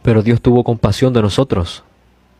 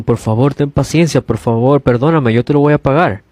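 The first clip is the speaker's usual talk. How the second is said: pleading debtor; 3 semitones higher than usual. Retold or imitated. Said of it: "le rogaba diciendo".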